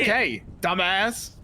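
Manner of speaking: slow, deliberate insult; said with your chest. Real, not acted. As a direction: lay it on with full conviction. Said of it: "you say it with your chest".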